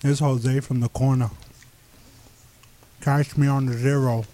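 talking through a mouthful of chips; mouth full. Real, not acted. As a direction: tough promo with food in mouth. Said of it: "you got a mouthful of freaking Fritos".

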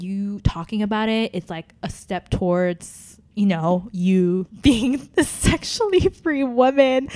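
imitating a condescending mentor, slowing on key phrases; patronizing encouragement. Date coaching her towards sexual freedom, mock patronizing. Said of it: "it was so patronizing".

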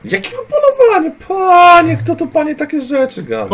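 very high, feigned shocked protest; mock indignation. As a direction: play the wronged innocent. Player feigns innocent outrage. (udawane oburzenie niewinnego)

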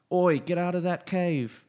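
quick, high Australian shout; Australian accent. Retold or imitated. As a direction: bark it like an Aussie soldier. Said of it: "You know, they're Australian".

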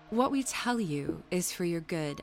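mild, gentle admonishing; no harsh voice. Acted. Nursemaid advising Jane for her good, mildly. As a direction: advise without any harshness. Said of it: "in no harsh voice".

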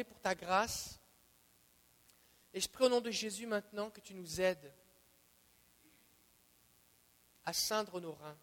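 earnest spoken prayer to the Lord. Acted. Pastor leading the congregation in closing prayer. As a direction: pray it for the group, steady.

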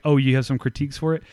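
mock-condescending question, tossed off quickly. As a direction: imitate a quick, mildly condescending query. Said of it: "all condescending, like".

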